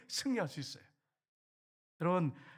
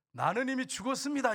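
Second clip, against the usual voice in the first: raised, louder proclaiming of faith; bold declaration; 7 semitones higher, 4 dB louder than usual. Shown as a demonstration. Pastor showing the congregation how to proclaim, raised and loud. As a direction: declare it high and loud like a vow. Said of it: "이걸 선포하셔야 돼".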